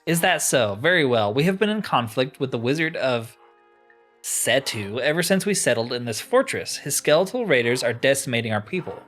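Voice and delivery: lightly acted haughty quest-giver; deliberate, declaimed game dialogue, dropping to a dismissal; a touch of stern authority laying down terms; imperious tribal leader. Voices leader giving a quest.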